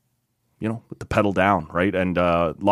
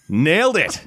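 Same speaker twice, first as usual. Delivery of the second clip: laughing; 8 semitones higher than usual. Real, not acted. Laughing after pun.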